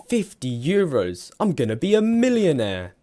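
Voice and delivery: high, loud, gleeful squeal; giddy at the thought of riches; excited kid. Retold or imitated. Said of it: "eleven-year-old me thought".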